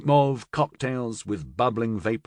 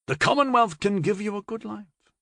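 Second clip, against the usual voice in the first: put-on old man voice; 10 semitones higher than usual. A narrator's reading. Old Baker advising Florian.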